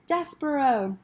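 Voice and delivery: a princess calling her friend; shouting his name. A narrator's reading. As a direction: call out to the mouse in joy. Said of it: "then she shouted it".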